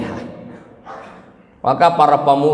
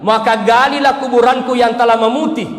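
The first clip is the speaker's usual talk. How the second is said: high, raised earnest plea; Khadijah pleading; 9 semitones higher than usual. Acted. Devoted wife pleading to the Prophet, high and raised.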